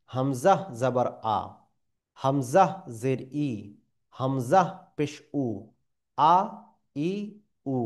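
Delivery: হামজা vowels আ ই উ kept short, no lengthening; clipped short vowels on আ, ই, উ; no stretch. Shown as a demonstration. Teacher drilling short hamza vowels, unstretched. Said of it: "পড়ে নিব টানবিহীন".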